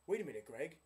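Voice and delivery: hammed-up aha to the listener; playful fake surprise, pitch rising at the end; mock surprise. Mock sudden realisation aloud.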